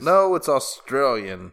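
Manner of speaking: slow, loud attempt at Australian; lightly put-on Australian accent. Host correcting a guess about the country, mock Australian accent. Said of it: "That's the best Australian accent".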